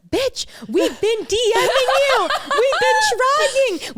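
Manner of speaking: very high, drawn-out playful wail; mock exasperation. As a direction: stretch it out in hammed-up desperation. Acted exasperated reply to Gloria.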